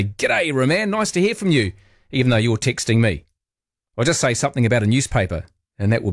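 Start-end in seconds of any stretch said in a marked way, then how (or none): 0.0-1.7 mock text greeting. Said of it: "you say".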